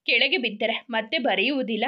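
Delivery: ಕೆಳಗೆ back at normal pitch, falling, a touch of upset; steadier, just barely weepy explanation; mild tearful explaining. Acted. Girl explaining to the boy why the pen won't write, a hint of tears. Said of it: "ಅದಕ್ಕೆ ಯಾಕೆ ಅಳ್ತಿದ್ದೀಯಾ".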